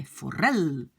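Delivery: forel with the stress on the E; accent sur le E. Shown as a demonstration. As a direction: lean on the E in "forel". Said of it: "l'accent est sur E". (forel, accent tonique sur le E)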